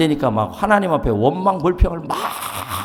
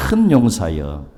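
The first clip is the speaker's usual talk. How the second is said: low, throaty call to a mighty warrior; mock booming call; 7 semitones lower, slower than usual. Shown as a demonstration. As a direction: clear the throat and call him grandly. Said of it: "가래가 좀 끓어야 됩니다". (가래 끓는 듯한 낮은 목소리)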